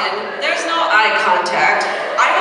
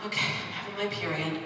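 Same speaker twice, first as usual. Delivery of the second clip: meek reply; 4 semitones lower, 12 dB quieter, faster than usual. Retold or imitated. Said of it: "I'm like".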